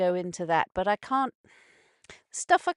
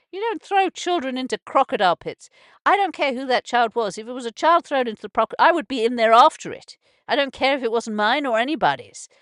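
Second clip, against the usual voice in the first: real anger; 3 semitones higher, 6 dB louder than usual. Real, not acted. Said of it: "I've got angry about it now".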